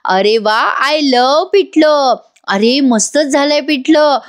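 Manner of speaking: sing-song mock delight over the pithla; mock praise. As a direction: stretch it out to tease the brothers. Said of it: "मुद्दाम नंदिनी आणि काव्या म्हणतात".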